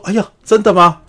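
high, loud feigned surprise; mock surprise. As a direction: act amazed for show. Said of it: "就说". (继母假装惊讶地问)

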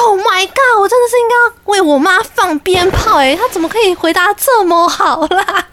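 excited delight. Retold or imitated. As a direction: cheer your mum on, delighted. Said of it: "我就说".

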